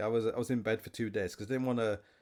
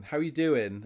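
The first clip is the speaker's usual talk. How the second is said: mock customer greeting; 5 semitones higher, 5 dB louder, slower than usual. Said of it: "they'd say".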